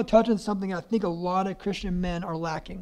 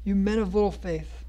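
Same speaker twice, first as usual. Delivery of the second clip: dramatic scripture reading. Acted. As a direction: read the storm passage like a preacher. Reads Matthew passage aloud.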